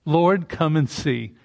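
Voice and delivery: slow, pleading "Lord, come and see"; a hint of Mary's plea, drawn out. Preacher voicing Mary at the tomb, slowed plea. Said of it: "this sounds so much like Mary".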